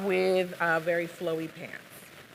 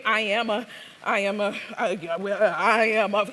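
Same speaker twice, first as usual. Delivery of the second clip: put-on Southern accent. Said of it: "I'm gonna attempt what is a Southern accent".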